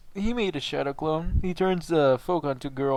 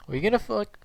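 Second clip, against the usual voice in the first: suspicious friend; 7 semitones higher, faster than usual. Retold or imitated. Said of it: "they're gonna hear my original voice".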